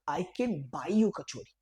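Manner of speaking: slow, clear teacher demo; slow drilled answer; slow model reply. Shown as a demonstration. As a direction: say it slowly so kids repeat. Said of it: "क्या बोलेंगे?".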